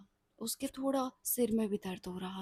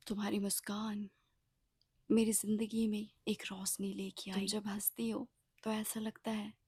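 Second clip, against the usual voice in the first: tender whisper. Acted. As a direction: murmur it close, like a confession. Umang's tender compliment.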